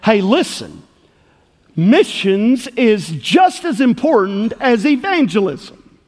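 imitated huffy insistence; worked-up retort. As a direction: retell her firm, slow comeback. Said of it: "it got her all worked up".

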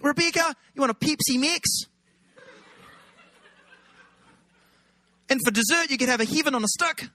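high-pitched exaggerated New Zealand accent; teasing Kiwi accent. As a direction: wind her up in mock Kiwi. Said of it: "with a Kiwi accent".

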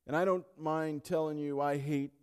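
loud, building preacher's cry; preaching at full force. Acted. Pastor railing against disease before the congregation, loud building preaching.

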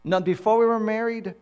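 mock-solemn confession with long pauses; exaggerated humility. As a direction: plead hopeless incompetence to your wife, hammed-up. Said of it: "it's called exaggerated humility".

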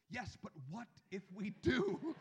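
put-on whiny child insisting. Son insists again, louder.

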